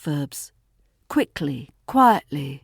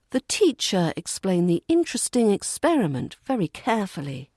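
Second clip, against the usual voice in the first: slightly more weight on "teacher" and "interesting", "the" and "very" weakened; slight emphasis on content words; faster than usual. Shown as a demonstration. Teacher repeats for learners to spot content words, stressing "teacher", "interesting", "carefully". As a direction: pitch lifts on "teacher", "interesting", "experiment" and "carefully". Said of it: "putting slight more emphasis on those words".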